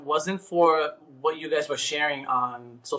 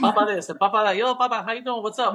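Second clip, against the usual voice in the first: higher-pitched friendly hail; imitating a chummy islander greeting; 5 semitones higher than usual. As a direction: call out an easy, familiar hello.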